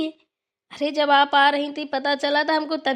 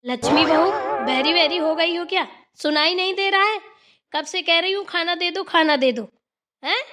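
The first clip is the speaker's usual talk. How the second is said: scolding mother-in-law; 3 semitones higher than usual. Acted. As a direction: tell her off for not listening. Mother-in-law scolding deaf daughter-in-law. (डाँटती हुई सास)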